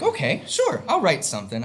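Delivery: a mock eager yes, voice leaps up then settles. A hint of a chirpy yes to the announcer, lightly voiced. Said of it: "I'm just like".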